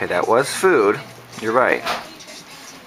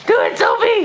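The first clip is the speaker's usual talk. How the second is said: excited urging. Real, not acted. Urging baby to babble.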